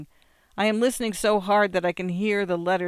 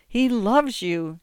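gentle explaining; 4 semitones higher, slower than usual. A narrator's reading. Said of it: "she explains".

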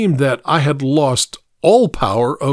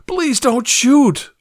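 begging, pitched much higher and slow; a victim begging the man with the gun to spare him; desperate plea; 13 semitones higher, slower than usual. A narrator's reading. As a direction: stretch out shoot as a terrified plea. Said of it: "I pleaded".

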